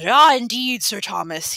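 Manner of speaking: mock fussy old constable, lightly voiced; fussy treble imitation. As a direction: play the fussing constable for a laugh. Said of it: "now imitating the fussy treble of Piers Discabius".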